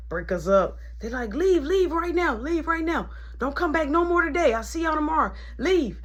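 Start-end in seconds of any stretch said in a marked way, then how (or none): 1.3-6.0 imitating security guard. Security ordering them out.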